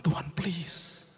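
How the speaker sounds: high, loud anguished cry to God; pleading prayer. Acted. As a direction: beg God through tears, building from slow to loud. Believer crying out to God. (seruan doa yang meratap dan keras)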